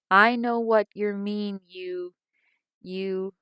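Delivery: loud, slow, seething accusation; furious outburst. A narrator's reading. Mother raging at daughter from her bed, loud and slow. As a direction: spit it at your daughter in a rage. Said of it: "whirlwind of passion".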